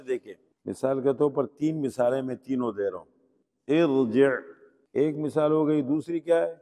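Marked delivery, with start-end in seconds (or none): 3.7-4.3 ارجع recited loud, with a full r after "i"; heavy r. Shown as a demonstration. Teacher gives exception example, heavy r recitation. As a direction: say ارجع as "irji'", r thick. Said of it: "پھر بھی".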